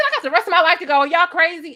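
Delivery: put-on high and loud, crowing about being young; gloating taunt. Receptionist taunting old patient about her youth, loud crowing voice. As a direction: crow it at the old lady like a cocky kid.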